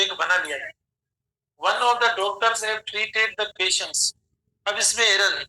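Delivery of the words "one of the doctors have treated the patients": slow dictation. Shown as a demonstration. Reading example sentence aloud.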